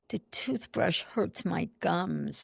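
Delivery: put-on soft, slow toddler voice; little girl's complaint. Mother recalls her toddler softly complaining. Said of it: "she goes".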